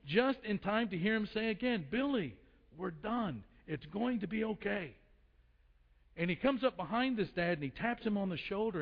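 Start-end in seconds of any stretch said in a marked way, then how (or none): 1.9-4.9 lightly acted calm dad, softening after the name; patient self-control. Dad telling Billy they're done, mildly acted patience. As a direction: reassure with restraint, spacing out each phrase. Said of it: "example of patience and self-control".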